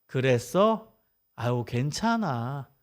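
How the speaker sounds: put-on calm a child down gently, no judgment; a parent easing a worried kid, slow and soft; soothing acceptance. Shown as a demonstration. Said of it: "이런 게 수용적 언어예요".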